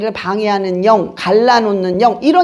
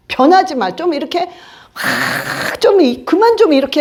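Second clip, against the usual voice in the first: ordinary talk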